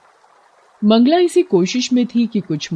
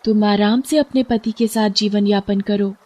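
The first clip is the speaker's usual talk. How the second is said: higher, thankful fish; grateful fish voice; 5 semitones higher than usual. Acted. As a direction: bless her kindness in a lifted voice.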